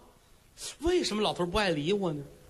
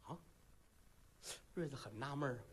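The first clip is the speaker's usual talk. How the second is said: ordinary delivery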